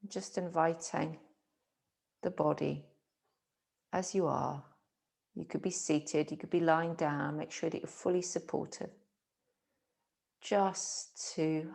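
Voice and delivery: calm, unhurried meditation voice; guided relaxation. Acted. Teacher settling listeners into a comfortable position, calm guided meditation. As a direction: ease them into rest with gentle pauses.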